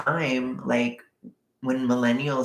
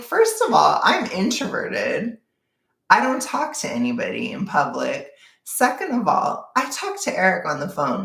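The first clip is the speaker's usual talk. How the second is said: higher, emphatic listing of proof; retold protest, argued point by point; indignant retort; 4 semitones higher than usual. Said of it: "I'm like".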